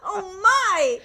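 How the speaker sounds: slow, laughing mock astonishment; laughing disbelief. Co-host teasing friend about returning accent, laughing disbelief.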